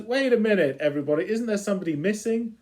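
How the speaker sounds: lightly voiced vain cat; the Cat demanding his match. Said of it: "the cat comes in and says".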